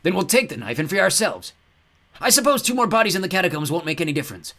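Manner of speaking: high, loud crazed ghost voice; ghost Claude. A narrator's reading. Ghost demands they free the mummies, high and crazed. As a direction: play the mad ghost with gleeful menace. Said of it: "ghost threatens".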